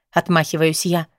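plain reading voice

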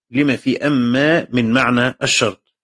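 slow, deliberate repeat of لما في أما من معنى الشرط, word by word; slow repetition for emphasis. Shown as a demonstration. Teacher repeats the phrase to his students, slowly. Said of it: "repeats the quoted phrase".

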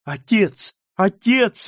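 high, rising desperate call; crying out. Acted. Daughter crying out to her father, high and desperate. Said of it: "воскликнула Маргарита".

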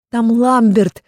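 loud high pleading cry; desperate shout. A narrator's reading. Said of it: "попыталась объяснить я".

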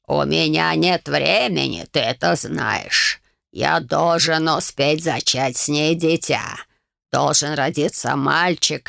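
put-on low, slow creaking old voice; creaky old man. A narrator's reading. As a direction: grate it like rusty door hinges. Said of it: "Скрипел, как проржавевшие дверные петли". (скрипучий голос старика, медленно и низко)

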